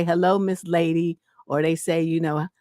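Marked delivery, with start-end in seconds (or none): 0.0-1.2 mock flirty greeting. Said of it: "they just love to say".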